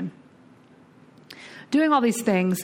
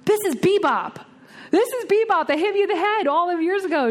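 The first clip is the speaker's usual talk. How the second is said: excited reveal; 11 semitones higher than usual. Retold or imitated. Daughter exposing her to her mother.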